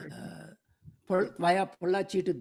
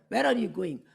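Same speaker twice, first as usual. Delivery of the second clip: a mild mock shout, a bit louder; retold shout; 6 dB louder than usual. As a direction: call them back with a moderate shout. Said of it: "he shouted".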